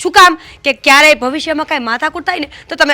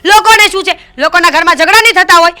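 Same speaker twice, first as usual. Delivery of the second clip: heated retort; 3 semitones higher than usual. Acted. Wife argues back in quarrel.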